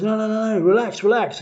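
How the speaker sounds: high, hurried-sounding mock reassurance; urgent retold calming. Street performer to the screaming crowd, urgently calming them. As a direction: act out trying to calm a crowd.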